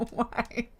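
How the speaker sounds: low, soft whimpered why; quiet despair. Real, not acted. Player despairing over a dead controller, softly whimpering. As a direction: trail into a small, defeated whine.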